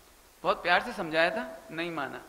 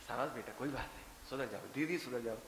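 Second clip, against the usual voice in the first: gentle approving mother-in-law; 9 semitones lower, 10 dB quieter than usual. Retold or imitated. Mother-in-law praising daughter-in-law.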